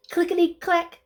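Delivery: high rattling rhythm; clicky sound effect. Acted. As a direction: click it out crisply. Sound word in story.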